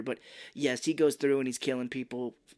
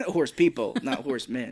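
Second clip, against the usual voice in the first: laughing correction; 5 dB louder than usual. Retold or imitated. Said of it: "horse people would be more accurate".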